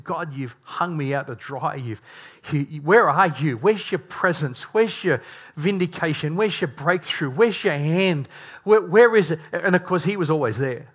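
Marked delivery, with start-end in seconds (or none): 0.0-9.4 pleading with God, rising to a shout; desperate plea to God. Retold or imitated. Preacher retelling his complaint, building to a shout. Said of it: "I found myself saying".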